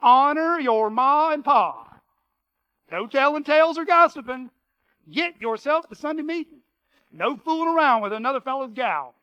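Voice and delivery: a hint of a Texas cowboy reading the rules; cowboy twang. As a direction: read the commandments like a ranch hand. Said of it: "reinterpreted in cowboy twang".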